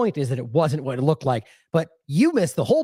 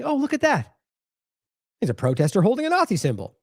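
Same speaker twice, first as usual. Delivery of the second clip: mock gleeful discovery; 4 semitones higher than usual. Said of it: "and going".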